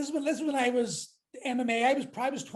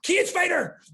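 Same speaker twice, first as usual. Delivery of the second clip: mock announcement; 6 semitones higher, 4 dB louder, slower than usual. Friend announcing him to butchers.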